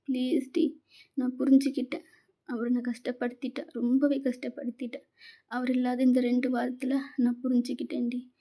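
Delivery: put-on girl begging her friend's forgiveness through tears; tearful pleading. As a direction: beg your friend through tears, hushed. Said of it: "நீங்க சொல்லி அழுறீங்க".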